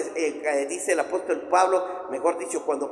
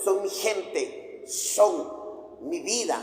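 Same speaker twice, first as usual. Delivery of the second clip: slow, soft and pleading; Jesus softly pleading with Saul, slow and tender; tender plea; 5 dB quieter, much slower than usual. Acted. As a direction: draw each word out gently, like a grieving friend.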